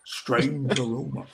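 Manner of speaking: deadpan commercial cowboy, drawn out; lazy Western hero delivering the tagline; slow cowboy drawl. Retold or imitated. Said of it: "it was a Western guy".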